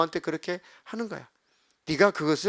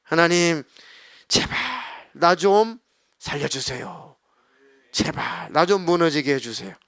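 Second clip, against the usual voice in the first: a touch of broken pleading; desperate plea. Retold or imitated. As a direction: beg God to save you. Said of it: "하나님 앞에 다 내 모습을 까발리고".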